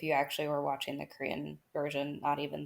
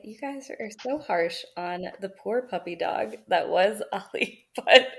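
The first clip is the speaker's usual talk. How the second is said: laughing while teasing the harsh friends; rising into real laughter; 5 semitones higher, 7 dB louder than usual. Real, not acted. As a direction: giggle through the defence of the puppy dog. Laughing defence of Ali.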